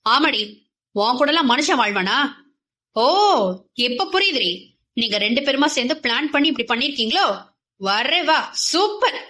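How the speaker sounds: lightly voiced sneering rant, fast in places; a hint of a husband lashing out in anger; angry rant. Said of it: "இஷ்டத்துக்கு கோபத்தில் தாறுமாறாக பேசினான்".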